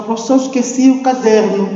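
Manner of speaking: forgetful pupil. Acted. Pupil back from the weekend excusing himself to the teacher, lightly voiced. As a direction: rattle off an excuse like a schoolkid. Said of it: "E quando chegar à escola".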